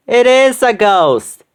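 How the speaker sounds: high, slow panicked scream. A narrator's reading. Guest at the party screaming in fright at the ghost. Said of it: "someone screamed".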